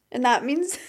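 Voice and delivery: ordinary talk, nothing marked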